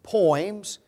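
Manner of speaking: poems, set apart with a lifted rising tune; poems, isolated and pointed, rising at the end; stressed word. Shown as a demonstration. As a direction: land hard on poems as a key word. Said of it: "notice that word".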